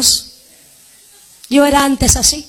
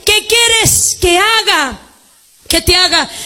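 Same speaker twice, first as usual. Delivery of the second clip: slow question; 6 semitones higher than usual. Acted. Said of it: "Respondiendo Jesús le dijo".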